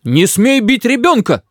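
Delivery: high, drawn-out protective cry; grandmother's high-pitched protest; grandmother shouting. A narrator's reading. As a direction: call out indignantly from another room. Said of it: "кричит из кухни бабушка".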